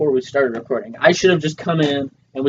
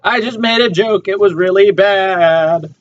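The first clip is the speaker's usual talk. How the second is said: higher, drawn-out mock wail; mock anguish; 4 semitones higher, 4 dB louder, slower than usual. Owning up to a bad joke, mock anguish. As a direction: wail it louder and stretched out.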